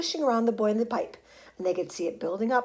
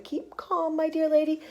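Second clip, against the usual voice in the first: soothing call; 7 semitones higher than usual. A narrator's reading. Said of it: "called Mister Wonka".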